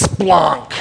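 "splunk" held long and slow; drawn-out funny word. Shown as a demonstration. Preacher enjoying funny Greek, "splunk" drawn out. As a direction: relish the sound of "splunk".

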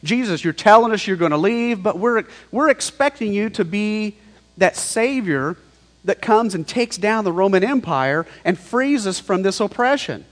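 mildly agitated disciples protesting to Jesus; mock freak-out. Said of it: "starting to freak out".

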